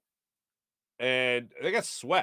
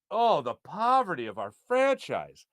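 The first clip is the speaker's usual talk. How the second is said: slow, drawn-out mock sorrow; mock lament. Host mock-mourning the franchise's poverty to the chat, slow and drawn out. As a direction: sigh it out like a theatrical mourner.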